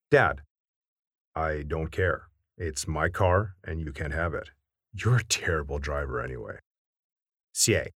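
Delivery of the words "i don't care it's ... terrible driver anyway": deep dad voice. Acted. Dad refuses the car keys.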